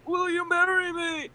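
high, loud, nervous retold proposal. Proposing to her fiance on one knee, high and nervous. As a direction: pop the question all at once. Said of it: "was like".

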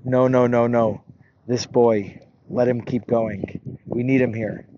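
calm, unhurried soothing; smiling, gentle reassurance. Acted. Baal Shem Tov calming the congregation, gentle. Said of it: "and he smiles".

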